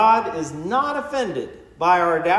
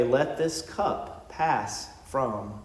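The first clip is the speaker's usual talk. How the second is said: slow, fading to almost nothing; quiet anguished prayer; 5 semitones lower, 7 dB quieter, much slower than usual. Retold or imitated. Jesus praying in the garden to the Father, slow fading plea. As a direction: let the plea die away, very slow and much softer.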